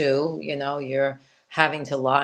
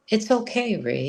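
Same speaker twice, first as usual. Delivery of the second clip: tender, higher reassuring father; loving voice; 8 semitones higher than usual. Retold or imitated. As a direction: gently reassure his daughter. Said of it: "very loving voice".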